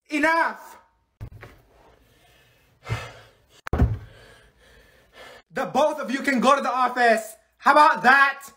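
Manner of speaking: high, commanding reprimand; exasperated scolding. Acted. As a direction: break up a fight and send them out. Scolding two fighters to the office.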